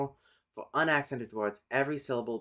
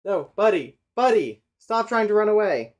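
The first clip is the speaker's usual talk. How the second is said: talking to the cat; 10 semitones higher, 12 dB louder than usual. Real, not acted.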